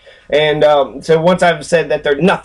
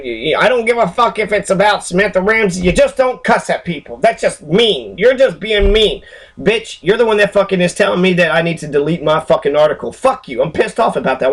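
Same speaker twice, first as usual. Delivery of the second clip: 1 angry rant; 4 semitones higher than usual. Real, not acted. Angry rant at wiki editor.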